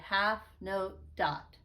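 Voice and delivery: slow, evenly spaced syllables; measured rhythm-drill delivery; counting note names. Shown as a demonstration. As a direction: say each word on its own beat. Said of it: "saying the kind of note, we say".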